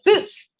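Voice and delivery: tiny, high, quick BOOTS. Shown as a demonstration. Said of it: "It's like a quick".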